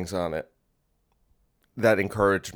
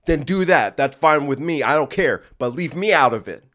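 louder and higher, fed up; worked-up rant; 4 semitones higher, 5 dB louder than usual. Real, not acted. Ranting at critics of his sweatpants, louder and higher. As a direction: brush them off with mock outrage.

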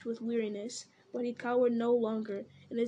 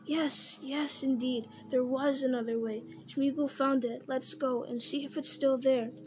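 Gollum eager; 3 semitones higher than usual. Acted. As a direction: hurry him along, keen.

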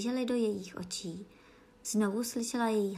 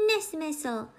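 higher, outspoken objection; said loudly; 6 semitones higher than usual. A narrator's reading. Alice objecting to the Queen, said out loud. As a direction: speak up against it. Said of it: "řekla Alenka hlasitě".

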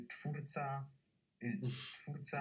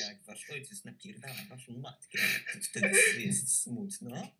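put-on creepy kids' host; 5 dB louder than usual. Mock children's show host.

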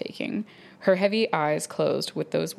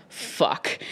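whispered curse. Acted. Character's curse in sex scene.

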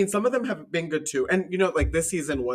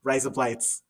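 trick Australian accent; slower than usual. Shown as a demonstration. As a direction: RISE UP LIGHTS run together like Australian "razor blades". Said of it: "sound like you're saying razor blades".

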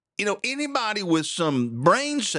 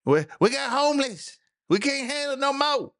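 mock complaint; 10 semitones higher than usual. Mocks Chicago complaining about homeless.

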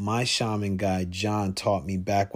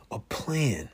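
whispering; 5 dB quieter than usual. Real, not acted. Whispered definition word.

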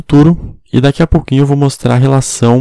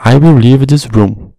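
determined, raised voice. Shown as a demonstration. Teacher demonstrating an emphatic will, firm and raised. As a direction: say it like you mean to walk out. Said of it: "a gente se expressa de uma forma mais enérgica e determinada".

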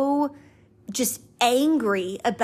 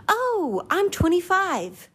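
much higher, whiny self-mockery; mocking inner voice; 8 semitones higher, slower than usual. Mocking her own inner voice on turning twenty-five, whiny and much higher. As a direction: squeak it out like a sulky kid. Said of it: "my mindset has been".

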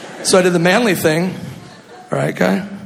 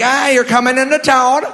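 put-on Minnesota accent, higher, sing-song mom; mom's Minnesota accent; 6 semitones higher than usual. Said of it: "She's that stupid accent too".

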